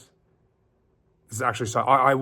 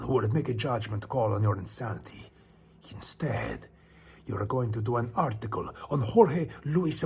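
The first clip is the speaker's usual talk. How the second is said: a hint of a dismissive boss in Spanish accent; boss, lightly voiced. Boss sending Navarro on assignment, lightly voiced. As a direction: lightly play the boss giving orders. Boss's speech within the story.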